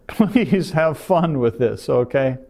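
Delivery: laughing plea. Real, not acted. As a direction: plead playfully while laughing. Joking plea, laugh heard.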